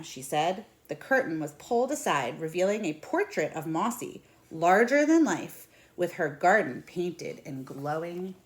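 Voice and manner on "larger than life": larger than life stretched out, louder and higher; emphasised. A narrator's reading. Reading to children, making the portrait sound huge.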